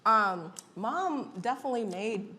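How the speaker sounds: talking through a mouthful of food; mouth full. Real, not acted. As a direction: speak with your mouth full. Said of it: "I'm talking with my mouth full".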